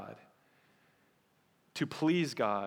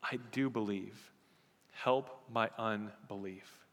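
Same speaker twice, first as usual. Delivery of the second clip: quiet plea; 4 semitones lower, 5 dB quieter than usual. Retold or imitated. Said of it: "the man says".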